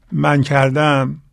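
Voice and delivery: very slow, each word laid down; slow confession. Retold or imitated. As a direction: say «من کردم» slowly and deliberately. Quoting the confession to a spouse. (آهسته و شمرده)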